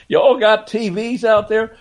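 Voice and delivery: high, drawn-out West Virginia drawl. Retold or imitated. Host repeating Rod Thorne's West Virginia drawl joke. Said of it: "in his West Virginia drawl".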